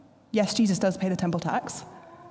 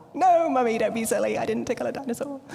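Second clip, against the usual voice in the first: mock-indignant child. Daughter protesting the dinosaur question, mock-indignant. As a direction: protest like a giggling toddler. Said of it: "She'll say".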